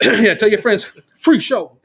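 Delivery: high hawking shout; playful barker's call. Retold or imitated. Filmmaker touts show to onlookers, high playful call. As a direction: drum up a crowd, pitched high.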